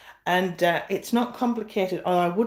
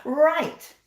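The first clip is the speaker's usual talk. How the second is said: laughing; 7 semitones higher, much slower than usual. Real, not acted. Laughs at herself.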